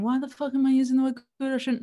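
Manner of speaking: fast, harsh self-scolding; berating yourself. Shown as a demonstration. Showing listeners how not to ask, in fast mock self-berating. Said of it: "not berating yourself, going".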